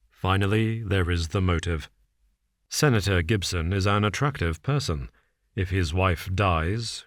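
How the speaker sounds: a hint of a cool, measured detective. Holmes lays out the case to Watson, calm and measured.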